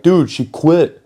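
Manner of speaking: high-pitched, excited friend imitation; excited news-breaking. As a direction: act out a friend spilling big gossip. Friend breaks big gossip, retold.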